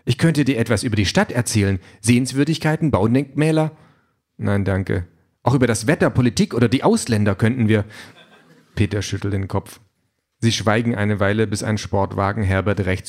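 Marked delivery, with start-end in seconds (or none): 0.0-7.8 slightly raised, keen chatty voice; eager talking car. Acted. Car pesters reluctant Peter with topics, lightly eager voice. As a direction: push the small talk a bit too keenly. Car keeps offering small talk.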